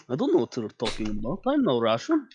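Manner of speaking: lightly put-on Russian accent, denying; badly faked Russian denial. Sig denying being Russian in a bad Russian accent. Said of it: "Just terrible Russian accent".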